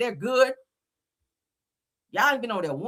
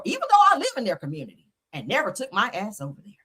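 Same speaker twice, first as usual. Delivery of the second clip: prim, higher-pitched mock Becky, lightly done; 4 semitones higher than usual. Mocking the judge's statement in a mock Becky voice. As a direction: read it like a smug prissy lady. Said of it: "I gotta say it in my Becky voice".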